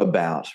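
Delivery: "About" with a reduced uh at the start; schwa in "About". Shown as a demonstration. Teacher repeating the English example, "About" with a schwa. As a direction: let the first vowel of "About" relax to uh. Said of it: "we go, uh".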